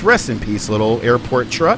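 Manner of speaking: normal talking voice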